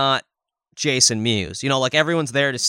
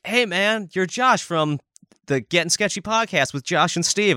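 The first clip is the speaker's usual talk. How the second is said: eager fan; 6 semitones higher than usual. Retold or imitated. Acting out fan greeting at booth.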